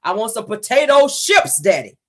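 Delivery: put-on childish thick-tongued whine for chips; lisping little girl. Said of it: "the little girl said".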